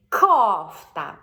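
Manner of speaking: Кофта, loud, К pushed out clearly; голосно, чітке К; loud Кофта with hard К. Shown as a demonstration. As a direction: show the child a clean К in Кофта. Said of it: "Бачите, я не чіпаю язичок".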